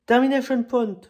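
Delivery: "Termination Point" in a would-be English accent, still French-flavoured; a mock-proud English accent on the film title; self-proud English accent. Shown as a demonstration. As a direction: show off your English accent on "Termination Point", half joking. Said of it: "avec mon accent anglais vachement bien".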